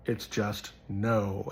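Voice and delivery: slow, deadpan imitation of sarcasm; sarcastic. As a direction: quote it with dry, drawn-out sarcasm. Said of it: "I heard my sarcasm in her voice".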